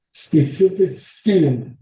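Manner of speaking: slowed down, each word spelled out; slow and deliberate. Shown as a demonstration. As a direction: say it slowly so they can hear. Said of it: "could you maybe repeat".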